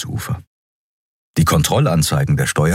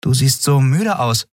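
put-on higher, brisk young woman's voice; young captain Andriel; 7 semitones higher than usual. A narrator's reading. Captain explains to her crew, lively and quick. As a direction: lift it up and push on briskly.

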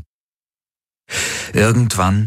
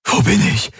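higher gasp; 13 semitones higher than usual. A narrator's reading. The dazed Galen wakes, gasping. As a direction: gasp the question out. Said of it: "keuchte er".

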